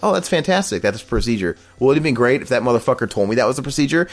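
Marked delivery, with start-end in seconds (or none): 0.0-1.6 mock-cheerful sarcasm; sarcastic retort to the receptionist. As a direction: fake delight, dripping sarcasm.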